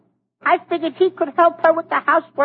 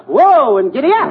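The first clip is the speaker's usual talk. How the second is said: tag; 3 semitones lower, 4 dB louder than usual. Acted. Mimics commands called to a mule.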